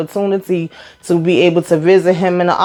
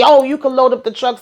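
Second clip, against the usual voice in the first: imitated mama ordering, pitched up; higher-voiced mock bossiness; bossy mama directing; 6 semitones higher than usual. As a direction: give orders like a pushy mama. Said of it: "yelling directions".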